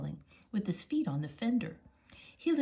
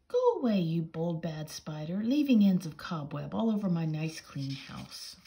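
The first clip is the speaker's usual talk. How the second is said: scolding; 4 dB louder than usual. Acted. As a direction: shoo the spider off crossly. Tidy mouse scolds the spider.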